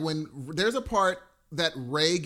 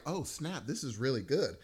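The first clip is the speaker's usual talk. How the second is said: soft, impressed aside; hushed retold reaction; 3 semitones lower, 6 dB quieter than usual. Podcaster recalling his reaction to the actor, hushed. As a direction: say it under your breath, impressed.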